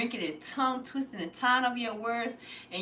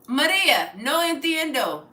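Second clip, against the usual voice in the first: loud call; 4 semitones higher, 6 dB louder than usual. Real, not acted. Calling to Maria.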